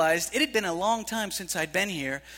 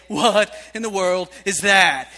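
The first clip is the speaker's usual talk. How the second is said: bewildered; 5 dB louder, slower than usual. Retold or imitated. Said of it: "you'd say".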